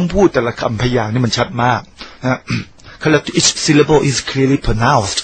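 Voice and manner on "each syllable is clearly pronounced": "each syllable is clearly pronounced" said slowly, syllable by syllable. Shown as a demonstration. Speaker showing listeners how foreigners pronounce each syllable, slow and clear. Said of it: "คือคุณต้องออกชัดแต่ละคำ".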